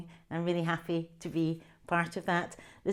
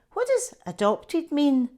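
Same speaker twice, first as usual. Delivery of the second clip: put-on slow, puzzled child; 8 semitones higher, 7 dB louder than usual. Child asking, confused.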